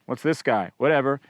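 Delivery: lightly voiced bored bear, unbothered; bear's indifferent thought. A bear eyeing a hiker on the trail, mildly unimpressed. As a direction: shrug it off like a bear that doesn't care.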